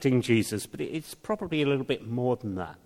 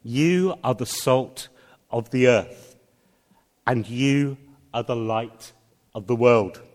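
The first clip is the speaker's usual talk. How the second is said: "you" lifted, "the earth" and "the world" landing loud; emphatic; 5 dB louder than usual. Acted. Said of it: "Jesus is emphatically saying".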